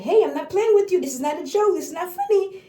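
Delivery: stern parent. Retold or imitated. Parent scolding a giggling child, stern. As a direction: lay down the law, firmly. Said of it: "where you're like".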